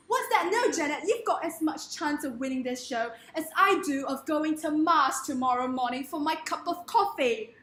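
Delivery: lightly acted British talent judge; Simon Cowell. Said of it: "Simon Cowell".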